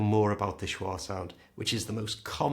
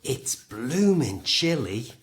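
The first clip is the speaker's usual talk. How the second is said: slow, louder, as if freezing and rubbing hands; cold and rubbing hands; 3 semitones higher, 5 dB louder, slower than usual. Shown as a demonstration. Teacher acting out feeling the British cold. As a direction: say it like you're shivering in the cold. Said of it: "So we say it like this".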